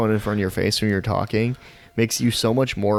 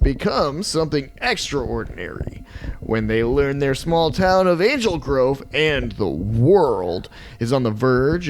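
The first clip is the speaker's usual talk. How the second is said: action trailer read. Shown as a demonstration. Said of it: "So it's like a action kids movie".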